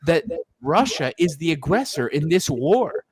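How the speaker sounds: mock Austrian movie star voice; hint of Arnold's accent; lightly voiced Arnold impression. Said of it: "he says my favorite part".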